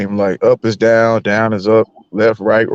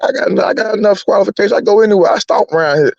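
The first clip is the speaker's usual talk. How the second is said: defiant retelling; 5 semitones higher than usual. Retold or imitated. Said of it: "I told my class, I said".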